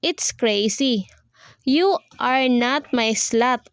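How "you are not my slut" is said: slow, every word of "You are not my slut" stressed separately; weight each word, YOU, ARE, NOT, MY, SLUT, slowly; emphasis on each word. A narrator's reading. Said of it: "said those words with emphasis on each word".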